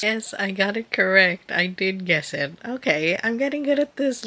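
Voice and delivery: bright, loud triumphant burst; excited cheer. Real, not acted. Reader cheering her own correct guess, excited. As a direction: celebrate getting it right.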